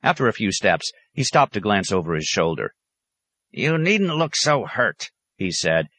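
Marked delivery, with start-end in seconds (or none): 3.5-5.1 high, slow, drawn-out chiding; crotchety high hermit voice; chiding old hermit. A narrator's reading. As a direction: stretch it out reproachfully. Hermit glances back, chiding.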